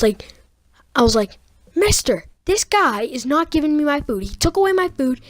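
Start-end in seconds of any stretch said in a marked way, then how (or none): 1.8-5.2 higher, mildly upset retelling; mad complaint. Retold or imitated. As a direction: complain to the principal, a touch of anger. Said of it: "I was so mad".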